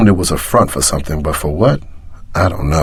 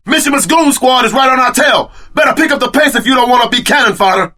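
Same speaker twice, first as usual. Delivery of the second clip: shouted warning; 12 semitones higher than usual. Acted. Urging partner during chase.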